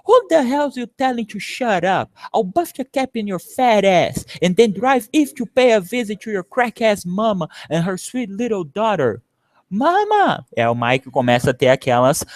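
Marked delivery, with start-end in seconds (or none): 0.0-9.2 higher, heated street threat; angry threat. Acted. Gang leader threatening Big Mike, heated and raised. Threat shouted after shut up. 9.7-10.5 calling mama. Acted. Memory cry for mother.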